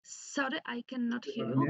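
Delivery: choppy breaking-up line; cutting in and out on a bad connection. Real, not acted. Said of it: "you're breaking up".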